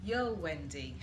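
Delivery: lightly voiced posh British yo, half laughing; a jokey touch of posh British on the greeting; posh British accent. Shown as a demonstration. Host greeting Wendy in a mock posh British accent. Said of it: "said with a very British and rather sounding posh accent".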